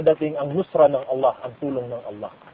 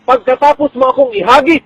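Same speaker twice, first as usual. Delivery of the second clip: pleading mother; 6 semitones higher, 7 dB louder than usual. Acted. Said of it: "Sabi niya".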